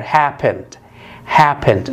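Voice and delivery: happened with HAP stressed; model word. Shown as a demonstration. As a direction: say happened stressing the first syllable. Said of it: "من غير مضاعفة الحرف الأخير".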